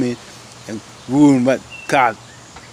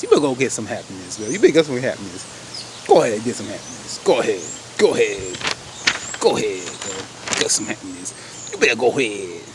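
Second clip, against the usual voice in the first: encouraging; 3 semitones lower than usual. Pretend. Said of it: "I'm gonna be nice".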